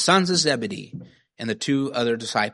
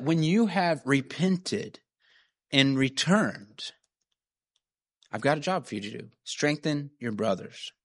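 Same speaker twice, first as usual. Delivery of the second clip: tender reread verse; 4 dB quieter than usual. Real, not acted. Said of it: "rereads verse slowly".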